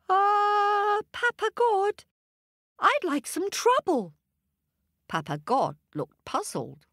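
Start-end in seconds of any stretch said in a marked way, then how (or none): 0.1-4.1 high, eager monkey voice. A narrator's reading. Monkey asking Papa God for trouble in a high voice. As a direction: ask politely but eagerly.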